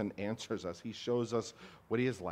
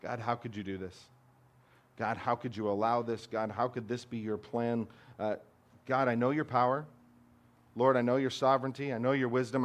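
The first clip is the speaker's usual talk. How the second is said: complaining to God. Retold or imitated. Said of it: "we're angry with God".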